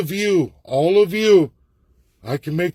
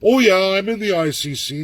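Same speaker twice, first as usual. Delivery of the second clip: mock boast again; 5 semitones higher than usual. Speaker dares rivals to claim ICC work, higher sarcastic voice. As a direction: parody the same empty claim. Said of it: "Ask someone to say".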